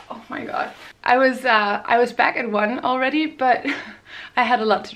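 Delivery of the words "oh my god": hungover groan. Real, not acted. Hungover, recalling the night.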